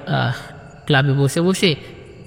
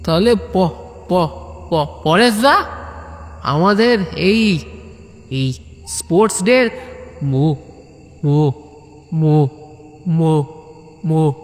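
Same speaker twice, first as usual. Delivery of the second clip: stuck stuttering on each syllable; stammer, unable to get the word out. Acted. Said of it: "ছাগল বা ভেড়ার মতো মুমু করছিস". (তোতলানো কথা)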